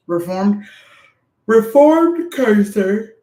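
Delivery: slow, playful emphasis; drawn-out joke. Real, not acted. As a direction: stretch it out teasingly. Joking self-label, drawn out.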